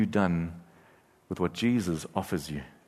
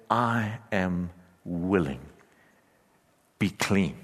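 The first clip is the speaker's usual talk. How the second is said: gentle Jesus; 3 semitones lower, slower than usual. Acted. Quoting Jesus to the leper.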